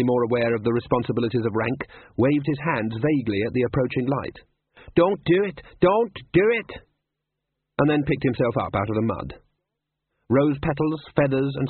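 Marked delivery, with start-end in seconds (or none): 5.0-6.8 high, loud panicked yell; shouting. Acted. Guard yelling at the approaching rider, high and loud. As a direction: wave off the charging horse, yelling. Colon waving at charging cart.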